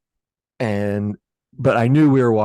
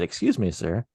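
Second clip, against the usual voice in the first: calm retold remark; 4 dB quieter than usual. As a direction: imitate a calm, polite stranger. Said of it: "was completely calm".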